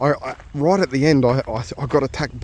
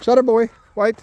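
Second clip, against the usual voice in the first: high, louder call to stop the dog; firm call; 10 semitones higher, 5 dB louder than usual. Real, not acted. Owner halting Shadow before a blind corner. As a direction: make the dog wait at the corner.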